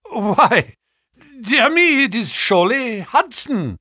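high, loud startled recognition; surprised. A narrator's reading. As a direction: gasp out the name in shock. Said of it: "in a tone of surprise".

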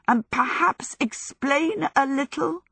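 high, flustered question; squawked demand. A narrator's reading. Sophie, spun round the room, demands explanation, high squawk. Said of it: "Sophie squawked".

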